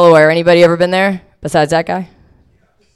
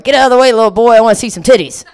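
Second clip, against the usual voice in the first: higher, louder rowdy party voice; rowdy crowd; 6 semitones higher, 3 dB louder, faster than usual. Retold or imitated. New Orleans partier yelling at her, mock rowdy voice. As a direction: shove the kid aside to gawk, hammed up. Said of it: "and they're like".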